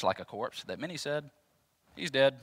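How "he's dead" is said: dramatic announcement. Acted. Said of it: "I don't think they said it like that".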